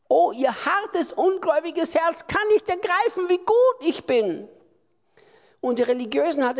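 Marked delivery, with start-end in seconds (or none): 0.1-4.5 lamenting Jesus. Acted. Preacher voices Jesus lamenting unbelief.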